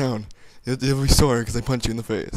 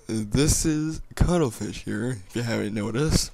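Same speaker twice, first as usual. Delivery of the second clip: sexy man voice; 4 dB quieter, slower than usual. Pretend. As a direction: lay on a smooth sexy man voice. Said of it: "by my sexy man voice".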